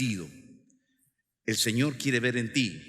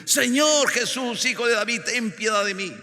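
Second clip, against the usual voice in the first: high plea, easing toward the end; acted cry for mercy; 8 semitones higher, 5 dB louder than usual. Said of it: "comenzaron a gritar".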